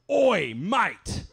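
loud, high street yell; yelled call. Retold or imitated. Homeless man yelling at him down the street. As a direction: call out across a busy street.

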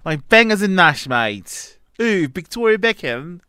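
put-on English accent for British cliches. Shown as a demonstration. Defending his accent to the host, playful mock English accent. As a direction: lightly play up an English accent. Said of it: "that was a good accent".

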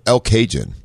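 "El Cajun" said as kay-jun, like the spice; mock the outsider's El Cajun, hard j; misreading "El Cajun" with a Cajun sound; mispronounced place name. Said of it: "they look at it and they go".

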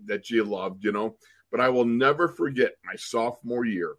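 usual speaking voice

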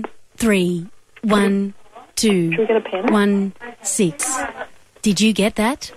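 robotic, even phone-menu voice; automated operator voice. Acted. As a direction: read it like a recorded phone system. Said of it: "use only my automated operator voice".

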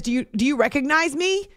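a hint of a Boston accent at the drive-thru. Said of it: "in his Boston accent".

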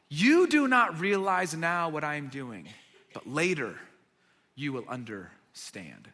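calm Jesus reassuring Peter; gentle reply. Retold or imitated.

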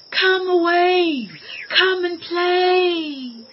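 high, slow, drawn-out wind voice; gusting windy whisper. A narrator's reading. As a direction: let it blow like wind in grass. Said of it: "whispered the wind in the long grass".

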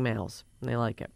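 unvoiced whispered aside. Real, not acted. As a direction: drop to a whisper.

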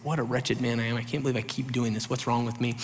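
soft, hushed self-reproach; a hushed wretched confession; quiet despairing Paul. Retold or imitated. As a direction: mutter it under your breath in despair. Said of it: "He's like".

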